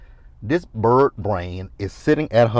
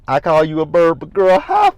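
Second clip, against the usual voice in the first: loud cheer; 6 semitones higher, 6 dB louder than usual. Real, not acted. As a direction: shout the high five. Cheering Andy on.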